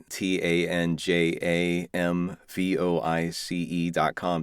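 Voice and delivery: each letter spelt slowly and clearly; spelled out slowly. Shown as a demonstration. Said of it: "Going back to your website".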